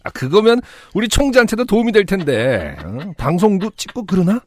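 a hint of a thrilled grandpa; very old man. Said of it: "할아버지는 신나셔서". (신난 할아버지 목소리)

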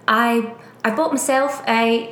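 halting attempt at a British accent; failed British imitation. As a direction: slowly try out a British accent, unsure. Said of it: "that's not how he talks".

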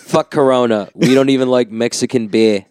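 lightly voiced Aussie mate, tough and proud; a hint of an Australian bloke bragging; Australian accent. Friend boasting about Australians, a light Australian accent. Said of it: "I'm always just doing my Australian accent".

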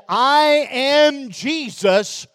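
slow, solemn voice of the Lord; the voice of Jesus. Retold or imitated. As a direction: speak each word slow and grave. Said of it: "And he said".

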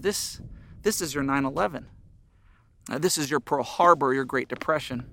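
put-on quiet warning to kids. Father quietly warning his kids of this crisis, hushed and grave. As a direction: lean in and tell them gravely.

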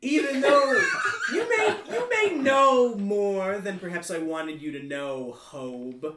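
Mae West by way of Alaska; film noir villain. Acted. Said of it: "sample of your film noir script".

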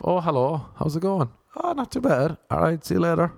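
high-pitched casual greetings; light, lilting hello-and-goodbye exchange; cheery small talk. Acted. Passing hello to someone in the street, cheery and high.

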